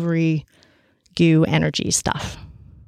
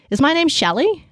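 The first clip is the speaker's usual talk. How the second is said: hopeful high question; 9 semitones higher than usual. Retold or imitated.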